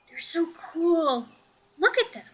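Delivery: put-on little girl marveling at the ants; amazed little child. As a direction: gush over the ants like a small kid.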